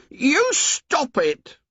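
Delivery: high, shrill and slow; shrill outburst. A narrator's reading. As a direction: cut him off sharply, high. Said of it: "said Piggy shrilly".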